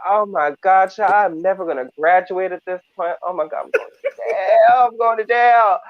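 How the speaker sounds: high, loud mock panic with a cry in it; a boy shrieking that he is going to jail; panicked crying boy. Teen boy sobbing to himself, imitated high and loud. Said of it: "he's crying and shrieking".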